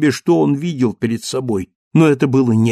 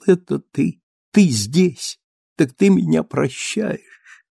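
joyful cry; 4 semitones higher, slower than usual. Acted. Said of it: "вскричал".

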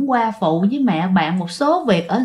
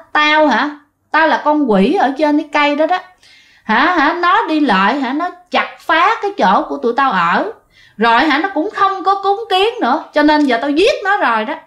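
higher, taunting demon voice; a spirit boasting of the kill; tree demon speaking; 4 semitones higher than usual. Acted. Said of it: "vừa nói mà vừa cười". (con quỷ trên cây nói giọng cao, khiêu khích)

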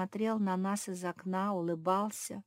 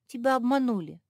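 louder, higher urgent cry; a raised alarmed warning; 6 semitones higher, 7 dB louder, faster than usual. Acted. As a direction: warn her with alarm. Mafi repeats the warning.

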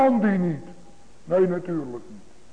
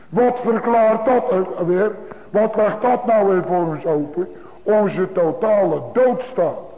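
preaching at full force. Acted. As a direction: drive the warning home to the congregation. Preaching builds to climax.

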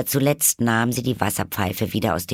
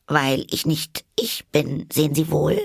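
put-on higher, quick girlish figure voice; polite Alice; 7 semitones higher than usual. A narrator's reading. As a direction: answer quickly in a high voice. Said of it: "sagte Alice". (höhere, höfliche Alice-Stimme)

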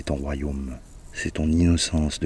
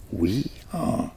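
brayed oui, pitched higher like a donkey; 5 semitones higher than usual. A narrator's reading. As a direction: bray the answer like an ass. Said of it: "plus fort que l'âne encore".

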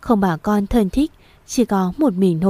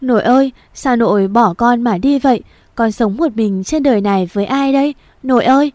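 raised, grieving wail to grandmother; crying out; 3 semitones higher, 4 dB louder than usual. Acted. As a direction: lament over her body, a touch of sobbing. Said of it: "khóc thở to". (khóc gọi nội, đau đớn)

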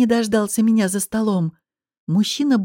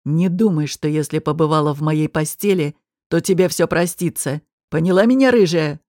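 menacing low threat; 5 semitones lower than usual. A narrator's reading. Gangster threatens barmaid.

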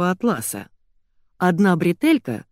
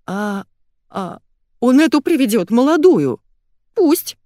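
anguished; 7 semitones higher, 6 dB louder than usual. Acted. Wife despairs over husband.

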